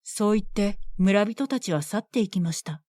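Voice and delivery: usual speaking voice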